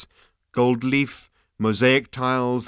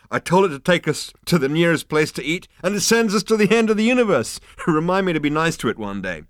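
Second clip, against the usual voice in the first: high, loud tipsy glee; loud drunk boasting; 7 semitones higher, 6 dB louder than usual. Acted. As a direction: crow about it, half drunk. Drunk Zaphod boasting loudly.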